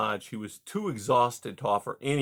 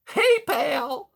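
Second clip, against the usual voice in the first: much higher, louder hearty voice; hearty beaver; 6 dB louder than usual. A narrator's reading. Beaver Mister Conrad greeting caged Rye, high and hearty. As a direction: boom out a jovial salesman beaver. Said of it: "Mister Conrad cried".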